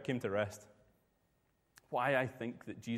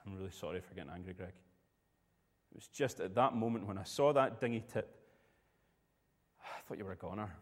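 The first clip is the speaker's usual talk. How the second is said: gentle apology; 2 semitones lower than usual. Retold or imitated. Skipper apologising gently in cabin.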